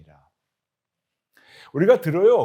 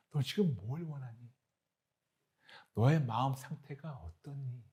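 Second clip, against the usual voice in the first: tender father's question. Acted. Voices the loving father.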